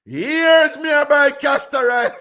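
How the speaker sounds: high, loud, slow yell of outrage; slow, furious high-pitched yell; angry shout. Retold or imitated. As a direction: shout it out in fury. Woman yelling at the other.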